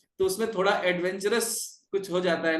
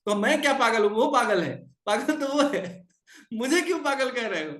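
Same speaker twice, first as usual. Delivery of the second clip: raised, higher indignant voice; indignant protest; 3 semitones higher than usual. Acted. Nityananda retorts to Haridas, indignant raised voice. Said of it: "तो कहते हैं कि".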